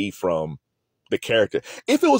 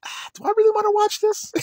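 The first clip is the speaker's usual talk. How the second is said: reluctant groan. Retold or imitated. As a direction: pretend to dread the show. Reluctant self-quote.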